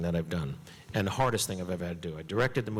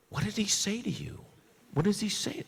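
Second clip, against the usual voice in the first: put-on eager kid voice; 10 semitones higher than usual. Kid begging brother for secret.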